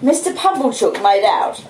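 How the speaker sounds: ordinary delivery, nothing marked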